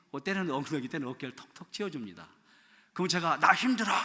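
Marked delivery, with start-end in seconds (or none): 3.4-3.9 louder, raised cry; loud complaint. Shown as a demonstration. Pastor to his wife, loud mock complaint. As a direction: shout it out. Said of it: "이렇게 말 않잖아요".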